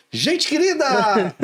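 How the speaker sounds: slow, drawn-out "Gente querida!" with "querida" falling; teacher catchphrase. Retold or imitated. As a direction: stretch out "querida" slowly to greet the class. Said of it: "uma entonação". (bordão arrastado e lento)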